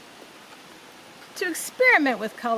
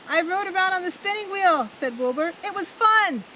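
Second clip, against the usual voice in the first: excited boast; 7 semitones higher, faster than usual. A narrator's reading. Wilbur tells Pa about the wheel, high and gleeful. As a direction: bubble over about the ride. Wilbur delighted after spinning.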